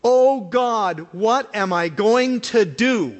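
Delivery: desperate plea. Retold or imitated. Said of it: "I was sickened by it".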